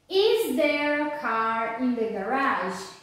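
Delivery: slow, carefully modelled question on "Is there a car in the garage?"; question intonation. Shown as a demonstration. Teacher models "Is there a car in the garage?" for students, question intonation. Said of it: "falar como se realmente eu estivesse perguntando".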